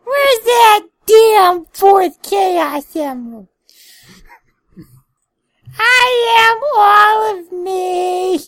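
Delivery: high, slow, loud edgy hero; Shadow voice. Pretend. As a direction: proclaim it like a brooding anime rival. Shadow the Hedgehog impression.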